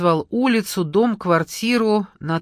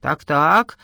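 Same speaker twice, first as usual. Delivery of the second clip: a mildly encouraging "so-so", slightly louder; 3 semitones lower, 5 dB louder than usual. A narrator's reading. Vladimir encouraging a nervous caller, lightly warm. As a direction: nudge the caller on kindly. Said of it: "ободряюще произнёс Владимир".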